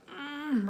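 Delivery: small, soft angry "mm"; mock a tense, cross hum. Shown as a demonstration. Teacher showing kids angry eyes, angry hum. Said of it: "if we're kind of angry".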